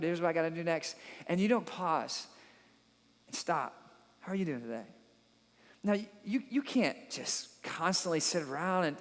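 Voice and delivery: earnest pastor winding down over music; reflective preaching. Acted. Reflective closing message over music.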